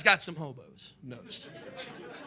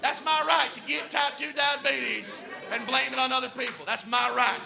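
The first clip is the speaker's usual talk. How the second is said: defiant redneck voice; 4 semitones higher than usual. Retold or imitated. Voicing angry American refusing cure.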